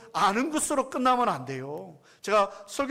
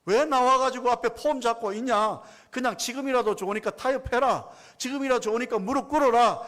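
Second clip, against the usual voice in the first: mocking Goliath; 3 semitones higher than usual. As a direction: sneer down at a weak enemy. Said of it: "골리앗이 큰 소리로 지금 조롱하는 거예요".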